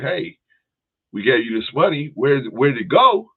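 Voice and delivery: mock yell of angry investors; retold angry yelling. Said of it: "people start screaming for their money".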